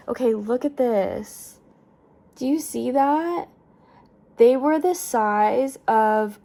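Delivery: can barely contain the thrill; freaking out. Real, not acted. Showing viewers the sea angel photos, loud and excited. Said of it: "I'm freaking out in the video".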